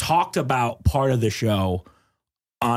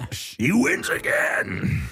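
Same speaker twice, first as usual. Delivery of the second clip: mock despair; 6 semitones higher, much slower than usual. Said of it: "I was like".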